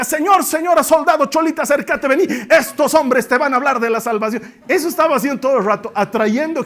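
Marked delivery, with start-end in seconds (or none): 0.0-4.4 loud, high vendor cry; hawking for Paul. Acted. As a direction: sell the preachers like market goods. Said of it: "esta estaba ahí cerca".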